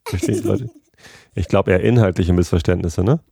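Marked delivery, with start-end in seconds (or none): 0.1-0.7 squeaky mock voice. Mock asking in silly voice.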